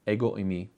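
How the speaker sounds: "ego eimi" as EH-go AY-mee; Greek pronunciation. Shown as a demonstration. Teacher repeats the Greek for listeners, careful "ego eimi". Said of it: "pronounced in the Greek".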